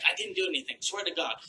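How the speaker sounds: a panicky husband swearing he did nothing; nervous high denial. Retold or imitated. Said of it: "So he was like".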